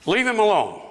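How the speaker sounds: acted crowd telling someone off; shushing. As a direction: hush a nuisance, pitch climbing. Acted crowd hushing the blind man.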